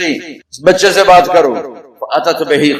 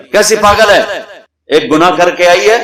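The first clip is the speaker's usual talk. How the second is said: angry scoff; 3 semitones higher, 3 dB louder, faster than usual. Retold or imitated. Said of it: "تو غصے میں آ گئے".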